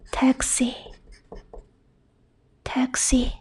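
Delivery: taxi with X said as ks. Shown as a demonstration. Teacher showing learners the first X sound, X as ks. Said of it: "One is X".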